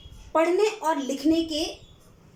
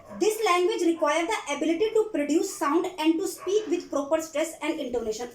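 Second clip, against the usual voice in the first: reads English slowly, word by word, for notes; slow dictation; much slower than usual. Acted. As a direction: spell it out slowly so students can write. (धीमी आवाज़ में लिखवाना)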